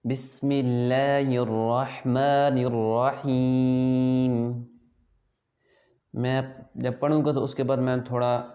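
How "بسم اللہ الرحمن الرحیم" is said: very slow, measured tajweed recitation; Quran recitation. Shown as a demonstration. Teacher models Bismillah for pupils to copy, slow recitation. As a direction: hold the long vowels, drawing out the ending. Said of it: "جیسے میں آپ کو پڑھاؤں گا".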